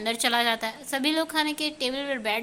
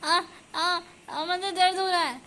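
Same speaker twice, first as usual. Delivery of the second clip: higher cries of pain, lightly played; mock yelp of pain; 5 semitones higher than usual. A narrator's reading. Ears pulled by mom, mild hammed-up pained yelps. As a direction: yelp as if your ear is pulled, half in jest. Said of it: "दोनों चिल्लाते हुए कहते हैं".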